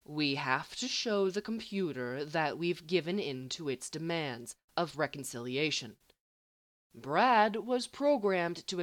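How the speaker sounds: slow and clear. Acted. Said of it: "speaking slowly and clearly".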